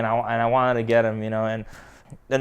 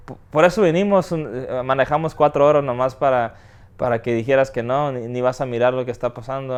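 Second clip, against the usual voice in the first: quick, raised scolding in Spanish; retold yelling. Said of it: "My mom starts yelling at me".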